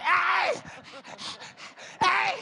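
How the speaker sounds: high yelled calls across the street; calling out. Retold or imitated. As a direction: call to someone across the road. Naked man calling out.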